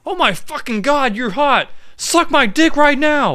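high, hammed-up lusty voice; horny lunatic. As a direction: gush it like a crazed creep. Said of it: "just proceeds like".

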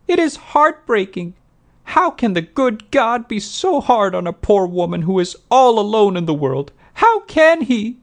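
high, loud self-pitying wail; woeful woman pleading her hard luck, very high; tearful falsetto. A narrator's reading. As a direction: lament piteously in a put-on falsetto. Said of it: "those tearful falsetto tones".

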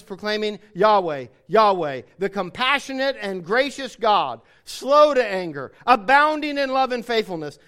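measured, emphatic Bible reading; scripture reading. A narrator's reading. Preacher reading God's proclamation to the congregation, solemn scripture reading.

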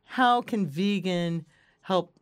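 slow, halting, faintly Russian-sounding delivery; unintended Russian-sounding phrasing. Real, not acted. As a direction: space the words out like a hesitant Russian speaker. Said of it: "Why did you say that like you're Russian".

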